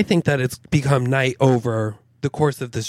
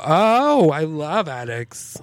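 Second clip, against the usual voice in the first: mock delight; 3 semitones higher, slower than usual. Telling the tall stranger about attics, mock gushing. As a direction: fake enthusiasm, overplayed. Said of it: "And I go".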